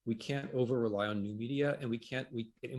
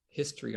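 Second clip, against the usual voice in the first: history set apart with emphasis; stress on HISTORY; 3 semitones higher than usual. Real, not acted. Historian underlining history as what rests on archives, stressed. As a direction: lean on the word history. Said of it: "I'm gonna stress the word history".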